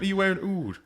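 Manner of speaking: put-on Dublin accent. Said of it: "in a thick Dublin accent".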